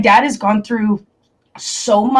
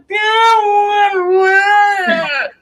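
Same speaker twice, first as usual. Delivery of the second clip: dismissive; 10 semitones higher, much slower than usual. Retold or imitated. Brushing off boyfriend's worry.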